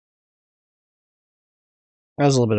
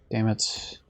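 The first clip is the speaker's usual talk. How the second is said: breathy whispered damn it; whispered curse; 6 dB quieter than usual. Real, not acted. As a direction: whisper it under your breath. Quietly cursing at game.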